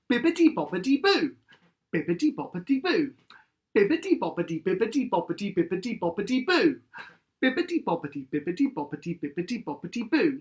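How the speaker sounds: bouncy syllable drill; tongue-twister drill. Shown as a demonstration. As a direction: play with the syllables like a warm-up. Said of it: "repeat after me".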